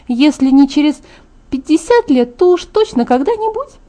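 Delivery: earnest Alice. Acted. Alice defends making her friend happy, earnest, high-pitched.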